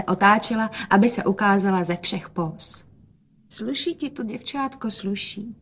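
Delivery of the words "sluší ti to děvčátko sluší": softer, higher tender quiet; quietly. A narrator's reading. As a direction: say it gently, quietly. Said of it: "hovořil otec tiše". (otec tiše chválí dceru)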